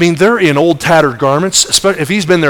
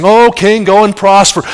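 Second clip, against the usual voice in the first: mock-sweet flattery, a little higher; baiting; 4 semitones higher, 3 dB louder than usual. Prophet baiting the king, mock-sweet. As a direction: bait him with false praise. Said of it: "Micaiah baited him by saying".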